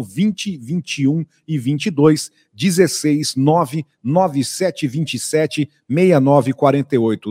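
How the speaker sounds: slow, spaced-out numbers; speaking slowly. Shown as a demonstration. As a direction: dictate each number carefully. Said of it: "Tô falando pausadamente".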